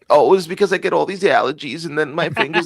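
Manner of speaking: put-on high, kvetching Jewish accent. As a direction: complain in a hammed-up Jewish accent. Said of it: "working too much on my Jewish accent".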